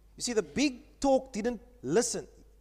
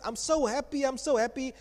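put-on gleeful toddler; 4 semitones higher than usual. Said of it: "he's so happy that he grabs".

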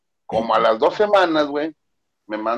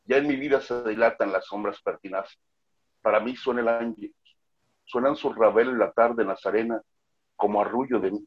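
solemn poetry recital, a touch softer; hammy stage actor; 4 semitones lower, 4 dB quieter than usual. Shown as a demonstration. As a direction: declaim it like a grand stage poet. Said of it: "Yo declamaba".

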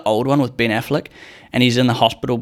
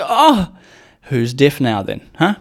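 gloating; 2 semitones higher, slower than usual. Retold or imitated. Gloating at girlfriend.

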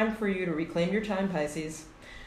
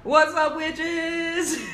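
high cackling witch greeting; 9 semitones higher, 4 dB louder, much slower than usual. Acted. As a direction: greet them like a spooky witch. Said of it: "that's his witch, witch voice".

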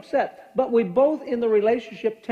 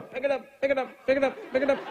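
soft, higher repeated chant; heaven's urging voice; 5 semitones higher, 4 dB quieter, faster than usual. Retold or imitated. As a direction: urge like a little voice from above. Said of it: "even heaven's going".

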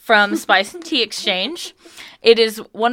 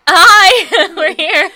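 bored class reply; 8 semitones higher, 7 dB louder, much slower than usual. Retold or imitated. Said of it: "and we were like".

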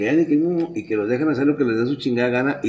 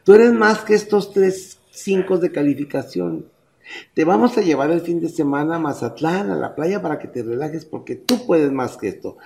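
lightly voiced parent praising a failing kid; coddling parent; 4 semitones higher than usual. Modern parent comforts his failing son, mock sweet. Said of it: "Yo sé que la gente hace".

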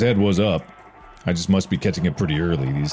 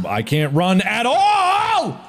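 panicked; much slower than usual. Real, not acted. Can't run from danger.

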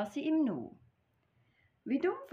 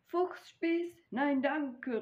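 high, startled refusal of fox skewer; a fox recoiling in alarm; 7 semitones higher, slower than usual. Acted. Fox to mouse, refusing alarmed. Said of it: "rief der Fuchs".

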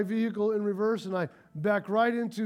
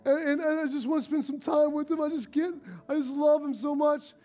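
higher, breathless-paced, rushed fretting; eager wife; 4 semitones higher, faster than usual. Acted. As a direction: play a flustered wife hurrying to her husband. Acted eager wife seeking husband.

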